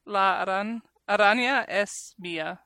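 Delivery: Southern-accented Spanish. Real, not acted. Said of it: "in my stupid Southern accent".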